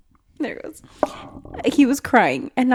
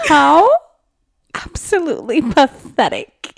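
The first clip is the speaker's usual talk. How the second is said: louder, higher, laughing scorn; haughty gargoyle sneer; 7 semitones higher, 7 dB louder than usual. Retold or imitated. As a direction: sneer in mock disgust. Imitating the gargoyle's disdain.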